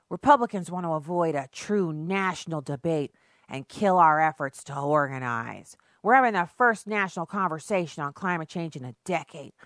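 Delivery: put-on weird, slurry drunken reading. Shown as a demonstration. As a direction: read it like you're a bit drunk. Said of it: "that kind of weird, almost drunken voice".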